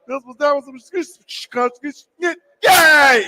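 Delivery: a very slow, muffled mock announcer; garbled PA voice mock. Fans mimicking an unintelligible stadium PA, very slow and muffled. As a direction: mimic the unintelligible old sound system. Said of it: "the next person would talk".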